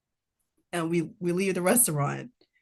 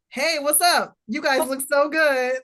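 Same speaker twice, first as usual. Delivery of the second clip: imitating gushing strangers; 5 semitones higher, 4 dB louder than usual. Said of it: "people was literally like".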